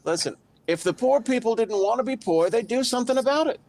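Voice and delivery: shaky likeness of a politician's voice; Donald Trump. Acted. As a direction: do a loose impression, pitch lifted. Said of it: "can I be Donald Trump for a second".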